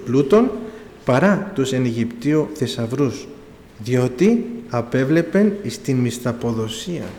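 slow, loud, measured Bible reading; solemn scripture reading. Acted. Preacher reading Hebrews to the congregation, slow and solemn. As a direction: proclaim each verse to the congregation.

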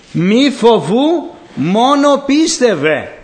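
very slow, drawn-out comfort; solemn reassurance. Acted. Christ comforting the fearful, slow solemn words. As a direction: lay each word down slowly, as Christ.

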